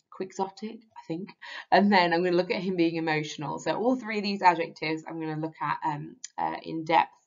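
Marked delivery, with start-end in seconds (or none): 0.1-0.8 slow careful word. Shown as a demonstration. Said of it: "another hard word to say".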